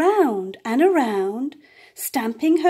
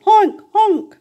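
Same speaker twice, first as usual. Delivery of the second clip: much higher and louder honking; loud goose honk; 9 semitones higher, 9 dB louder than usual. A narrator's reading. Geese's loud honk in story.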